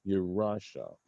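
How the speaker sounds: Yarasha stressed on RA, falling away after; accent on middle syllable. Shown as a demonstration. Teacher repeating the grammar example, Yarasha stressed on RA. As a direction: say Yarasha as ya-RA-sha. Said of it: "that's where the accent falls".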